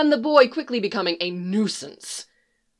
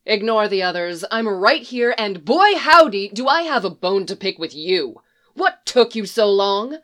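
louder, peeved complaint; indignant scolding; 3 dB louder than usual. Acted. Roach calls out to Geralt, peeved at being left so long. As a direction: demand an answer.

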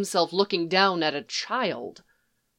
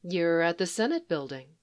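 easy; 6 dB quieter than usual. Acted. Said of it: "Leia says easily".

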